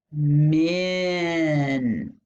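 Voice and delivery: "Min" drawn out on its short I; short I sound. Shown as a demonstration. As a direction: stretch the "i" in "Min" as in "pin". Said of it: "That's the short I sound".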